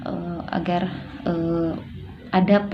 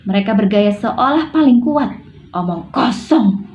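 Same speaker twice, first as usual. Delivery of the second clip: mildly resentful outburst, firmly stressed and louder; Natasha annoyed; 4 dB louder than usual. Shown as a demonstration. Telling Maria she was never loved, annoyed and resentful. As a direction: reject her with heavy, irritated emphasis. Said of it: "intonasi kesal yang lainnya".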